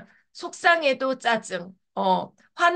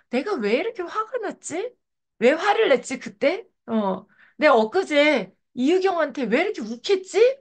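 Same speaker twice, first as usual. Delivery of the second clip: higher-pitched, wondering questions to oneself; puzzled self-questioning; 4 semitones higher than usual. Retold or imitated. Speaker replaying her own reflection after losing her temper, puzzled self-questioning. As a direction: replay asking yourself why, pitch lifted.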